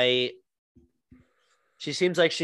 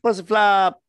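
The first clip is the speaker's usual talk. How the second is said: drawn out title; 7 semitones higher, 8 dB louder, slower than usual. Acted. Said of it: "with, like, six O's".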